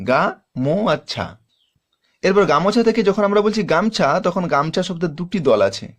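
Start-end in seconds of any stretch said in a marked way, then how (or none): 0.1-1.3 গা মো ছা, three syllables spoken apart with pauses. Shown as a demonstration. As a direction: split গামোছা into three parts. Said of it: "তিনটা দল আছে". (তিন দলে ভেঙে উচ্চারণ)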